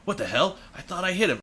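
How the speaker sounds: under the breath, puzzled; quiet. Retold or imitated. Retelling Leon firing at zombies, quiet puzzled mutter. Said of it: "very quietly".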